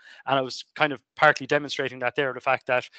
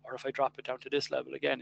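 another step softer; softer second step of the volume demo; lowered again; 6 dB quieter than usual. Shown as a demonstration. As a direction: bring the volume down a notch. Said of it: "lower it down in steps".

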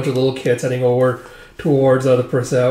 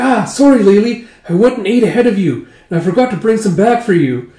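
apologetic; 6 semitones higher, 3 dB louder than usual. Retold or imitated. Acted apology to sister.

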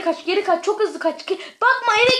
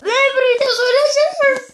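indignant; 6 semitones higher, 5 dB louder than usual. Real, not acted. Indignant reply to teammate.

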